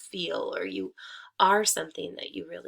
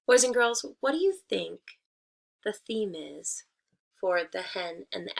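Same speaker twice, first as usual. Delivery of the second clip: teacher asking class. Acted. Teacher asking her class about the theme, inviting. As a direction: invite the kids to think.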